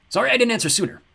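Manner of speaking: high, bright-sounding god voice; breezy and amused; cheerful god. A narrator's reading. God apologises to Sadie, light and high.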